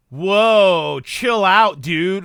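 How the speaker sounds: lightly voiced eighties teen, loud drawn-out opening; eighties teenager. Imagined time traveler in a magical world, lightly voiced eighties teen. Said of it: "like a teenager from the eighties".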